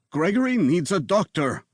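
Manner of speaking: a touch of a cracking voice, high; mild breaking voice begging help for Gregory. A narrator's reading. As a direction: plead with the voice giving way a little. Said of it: "His voice broke".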